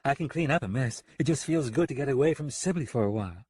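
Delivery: a touch of carefree good cheer; mildly jovial. Acted. Woman glad to get away from town, mildly jovial. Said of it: "turning more jovial".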